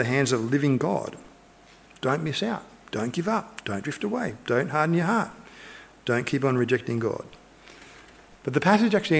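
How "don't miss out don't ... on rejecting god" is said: soft pleading. Acted. Soft earnest pleading to the congregation.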